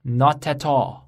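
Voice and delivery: slow, blended "not at all"; slow linking demo; slow linked. Shown as a demonstration. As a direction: glide through "not at all". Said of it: "就变成了".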